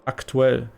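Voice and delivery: "Aktuell" as the German word, with a really hard T. Shown as a demonstration. Streamer showing chat the German word, "Aktuell" with hard T. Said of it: "It's a really hard, um, T".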